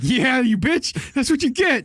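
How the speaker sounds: lightly voiced gloating bird; gloating macaw. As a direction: taunt like a smug parrot. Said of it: "the macaw's like".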